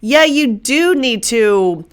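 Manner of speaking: coaxing brain voice. Retold or imitated. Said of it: "Your brain is saying".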